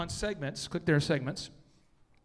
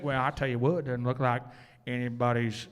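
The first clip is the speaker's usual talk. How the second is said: put-on country redneck accent; 6 semitones lower than usual. Presenter offering a redneck version, low country accent. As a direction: put on a hammed-up rural Oklahoma accent. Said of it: "country redneck".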